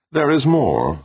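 high, measured voice of an alien being. Acted. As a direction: speak as a calm cosmic presence.

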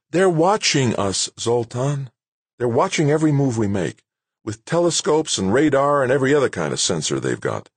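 high-pitched, insistent director laying out the danger; urgent character voice, pitched well up; exasperated base director. Acted. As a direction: argue back as an official under pressure. Narrator voices director cutting him off.

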